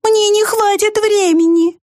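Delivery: high, slow, mournful mouse; tiny mouse voicing its regret. A narrator's reading. Mouse's speech. (высокий мышиный голосок, с грустью)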